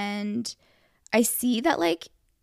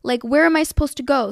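higher-pitched mock huffy customer; put-on indignant retort; retold attitude; 4 semitones higher, 4 dB louder than usual. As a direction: imitate a driver giving attitude. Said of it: "she was kinda giving me attitude".

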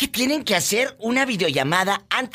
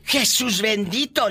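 high, slow scandalized exclamation; hammed-up pious horror at gossip; mock shock; 6 semitones higher, slower than usual. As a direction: draw it out high, theatrically appalled. Host shocked by cheating revelation.

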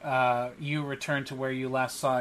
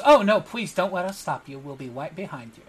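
put-on small cat boy; 2 semitones higher, 3 dB louder than usual. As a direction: politely wave them on as a cute little official. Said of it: "adorable small cat boy".

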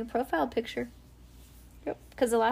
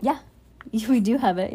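plain reading voice

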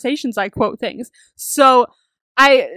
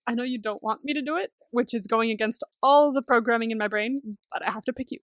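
quiet reluctant confession; 2 semitones lower, 7 dB quieter than usual. Retold or imitated. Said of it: "he was like".

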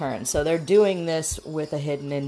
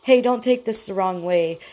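higher, mock-concerned nosy question; insult as a question; 5 semitones higher, 3 dB louder than usual. Host imitates someone mocking your food, fake concern. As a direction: feign concern while jabbing. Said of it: "They disguise insults as questions".

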